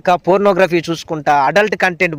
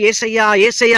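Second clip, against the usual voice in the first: modelled cry of యేసయ్యా, pitched higher; fervent call, pitched up; calling out to Jesus; 4 semitones higher than usual. Shown as a demonstration. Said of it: "అని పిలు".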